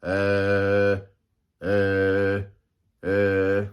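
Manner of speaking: low, drawn-out uh sounds showing the vocal cords buzzing; vocal cord demo. Shown as a demonstration. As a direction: hum a low uh to show vibration. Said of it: "those vocal cords".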